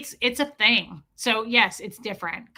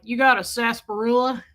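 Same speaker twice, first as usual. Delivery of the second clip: Sam Elliott; 4 dB louder than usual. Retold or imitated. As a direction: quote it with a hint of cowboy accent. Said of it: "reminds me of Sam Elliott in The Big Lebowski".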